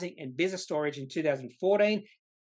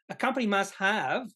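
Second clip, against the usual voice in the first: must pressed a little higher; stress on must; 4 semitones higher than usual. Real, not acted. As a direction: lean on the word must. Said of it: "the reason I really emphasize the word must".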